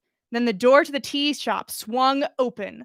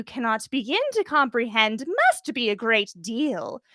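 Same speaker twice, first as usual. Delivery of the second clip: a hint of saccharine condescension, higher; sickly sweet; 3 semitones higher than usual. Umbridge sweetly condescending to the young server. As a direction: drip with fake sweetness. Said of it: "very sweetly forced a smile".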